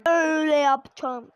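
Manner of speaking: coach show. Shown as a demonstration. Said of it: "Ateşli şut nasıl atılır?".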